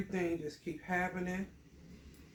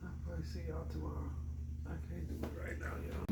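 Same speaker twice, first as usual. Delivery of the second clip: hurried sign-off; 6 dB quieter, much faster than usual. Real, not acted. Rushing to end the video.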